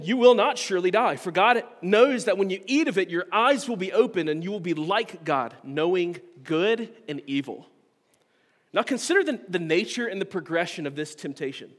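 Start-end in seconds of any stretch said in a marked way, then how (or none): 0.0-7.7 bold reading. Acted. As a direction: proclaim the serpent's promise boldly. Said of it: "But the serpent said to the woman".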